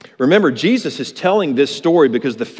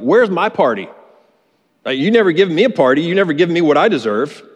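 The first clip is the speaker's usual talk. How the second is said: mock whiny, demanding son, a touch higher; entitled son; 4 semitones higher, 3 dB louder than usual. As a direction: act out the son sulking over what he's owed. Older son demanding his party.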